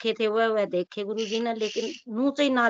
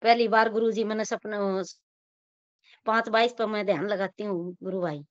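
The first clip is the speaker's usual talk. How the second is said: choppy voice breaking up on a bad line; speech cutting in and out over the call; corrupted glitchy audio; 2 semitones lower than usual. Real, not acted. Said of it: "आपकी आवाज cut cut के आ रही है".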